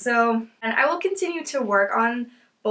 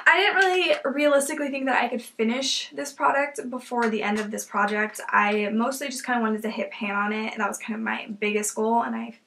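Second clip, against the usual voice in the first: talking while getting over a cold; stuffy nose. Real, not acted. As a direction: voice thick from a cold. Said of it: "I'm really sorry if I sound, like, sick".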